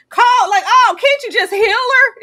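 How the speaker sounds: imitated yelling, high and loud; high-pitched, exasperated mock yell; Dolly Jean. Panelist retelling Dolly Jean's demand to heal her, yelled. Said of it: "Dolly Jean yelling".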